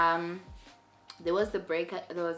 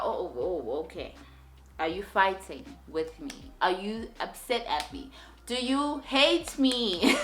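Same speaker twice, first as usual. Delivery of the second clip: mock paranoid worry; 4 dB louder than usual. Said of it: "I'm like".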